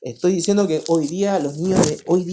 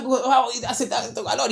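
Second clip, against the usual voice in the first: slow, put-on whiny voice of a heat-hater; mock heat complaint; 6 semitones higher, slower than usual. A pastor mimics a church member complaining about the heat, slowly and mockingly. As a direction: drag it out like someone melting in the heat.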